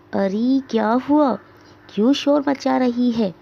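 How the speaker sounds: a hint of a grumbling old woman; old mother calling back. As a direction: answer from the back room. Old mother answers from inside.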